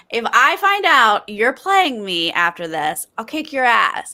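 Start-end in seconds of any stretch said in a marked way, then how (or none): none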